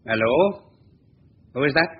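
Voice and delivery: calling down a bad line, voice lifted; loud phone greeting.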